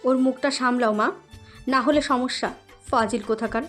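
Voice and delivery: cross parting warning; irate big sister; angry. A narrator's reading. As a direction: warn mother crossly. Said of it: "বলে রেগে মেগে চলে যায়".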